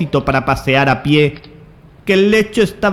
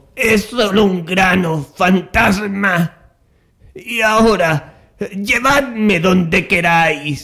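stammering, faltering, weakened voice, higher; 4 semitones higher than usual. A narrator reads Scrooge answering the ghost, stammering with a faltering voice. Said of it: "Scrooge balbuceó con inusitado desfallecimiento en la voz".

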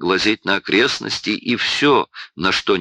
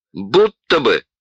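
sneering disbelief, scoffing and mocking, cutting in; 2 semitones higher, 4 dB louder than usual. A man cuts off the other speaker's reply: mocking. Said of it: "с издевкой перебил Бруно".

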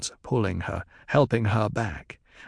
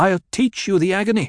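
very high, loud, twisting whine with a catch; 9 semitones higher, 5 dB louder than usual. She threatens Jamis, who stares at her in fright, in a twisting, whining tone. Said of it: "she said in the same tone".

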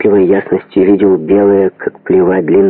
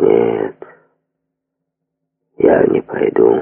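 very low, very slow, hushed and quiet; 10 semitones lower than usual. Narrator reads a soldier answering a man, quietly. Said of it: "сказал солдат тихо".

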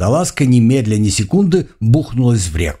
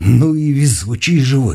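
ordinary delivery

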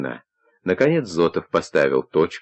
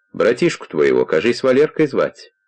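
usual speaking voice

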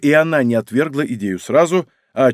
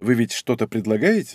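plain

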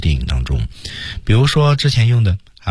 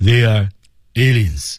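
stiff, rigid tongue-root, tense locked articulation; 3 semitones higher than usual. Imitating a dubbing actor's delivery of an English line: stiff tongue-root voice. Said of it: "舌头根发硬啊，僵直。".

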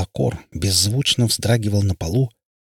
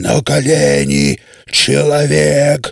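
loud, shrill, terrifying vampire roar; 6 semitones higher, 6 dB louder than usual. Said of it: "взревел Лакорд таким страшным голосом".

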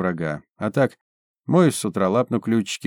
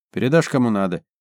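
usual speaking voice

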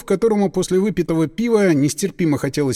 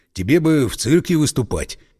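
ordinary delivery

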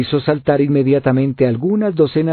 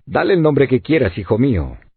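usual speaking voice

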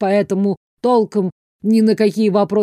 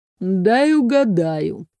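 with increased sourness. Narrator reads a man's reply to the woman narrator, even more sourly. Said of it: "еще кислее проговорил он".

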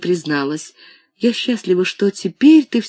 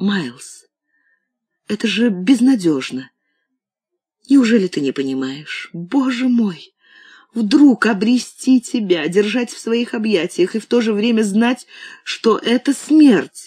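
crying, words through sobs and tears. A woman answers her beloved, who refuses to let her leave; crying. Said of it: "не плачь, моя любимая".

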